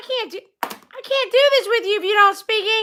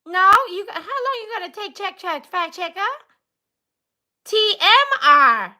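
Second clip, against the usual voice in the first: laughing; 3 semitones lower than usual. Real, not acted.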